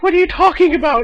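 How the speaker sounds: high, baffled question; confused. Retold or imitated. Player asks panicking villagers, high, baffled. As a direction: sound totally thrown. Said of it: "And I'm like".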